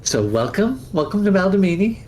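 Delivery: put-on high, sweet old lady welcoming guests; chirpy old crone showing off her town; old woman hostess.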